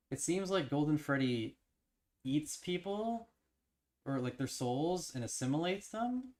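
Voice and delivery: high, stretched disbelief; excited. Real, not acted. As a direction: marvel at the idea. Stresses the discovery.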